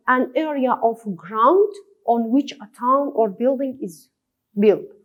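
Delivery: words spaced out slowly; teacher reading an example line slowly. Shown as a demonstration. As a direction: read it slowly, as dictation for the class.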